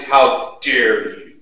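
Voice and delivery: how dare you, slow and loud; mock outraged rebuke. Pastor mocking the harsh reply he never gave. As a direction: pretend to scold her angrily. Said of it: "No, I didn't say that".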